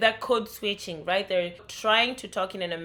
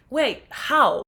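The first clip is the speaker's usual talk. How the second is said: louder, higher baffled wait how; mock surprise; 6 semitones higher, 6 dB louder than usual. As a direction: sound caught off guard. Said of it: "And I'm like".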